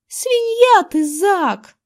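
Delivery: high, loud scolding in disgust; girl disgusted by her friend's joke. A narrator's reading. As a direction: wrinkle your nose and scold. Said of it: "сморщилась Эрин".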